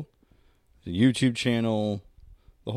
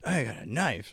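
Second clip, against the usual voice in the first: soft imitation of wife; wife's quote; 3 semitones higher, 5 dB quieter than usual. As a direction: murmur it like wife does. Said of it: "my wife will just".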